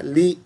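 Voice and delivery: ली with a long ee; correct reading. Shown as a demonstration. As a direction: say ली as "lee". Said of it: "is right".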